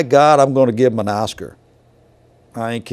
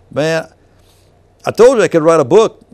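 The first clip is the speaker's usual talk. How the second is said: exclaiming; 4 semitones higher, 9 dB louder than usual. Real, not acted. Exclaiming to listener, amazed.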